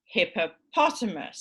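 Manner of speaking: "hippopotamus" with HIP lighter and POT strongest; secondary and major stress. Shown as a demonstration. Teacher showing stress levels, HIP secondary and POT main in "hippopotamus". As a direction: give HIP some weight, punch POT in "hippopotamus". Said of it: "the major stress is on the, the second to last".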